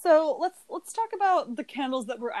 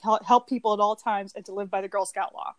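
put-on eager scout kid; faster than usual. Shown as a demonstration. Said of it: "Let me see if I can do it".

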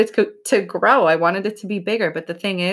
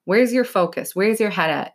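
blunt self-check; 3 semitones higher than usual. Shown as a demonstration. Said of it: "the reason I say it like that".

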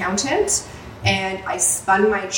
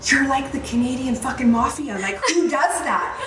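acted-out amazement, climbing higher; mock incredulous; 5 semitones higher than usual. Retelling accountant's reaction to her collecting the debt, incredulous. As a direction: imitate a stunned friend, pitch rising to the last question.

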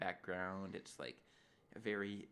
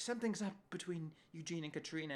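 higher-pitched insinuating retelling; gossipy Connie; 7 semitones higher than usual. Retold or imitated. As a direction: play a suspicious gossip, pitched up.

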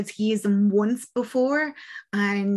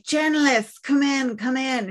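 higher call through the door; 4 semitones higher than usual. Acted. Priest calling journalist in from the door, urgent. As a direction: summon her in from outside.

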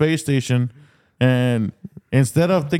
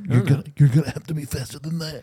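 put-on old man voice. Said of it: "commercial with the old man".

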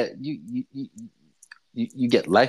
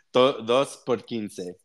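slow vendor call; 3 semitones lower, slower than usual. Shown as a demonstration. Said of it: "the short version".

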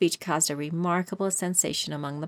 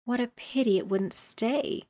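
sighing; 5 semitones higher than usual. Acted. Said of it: "sighed the Lory".

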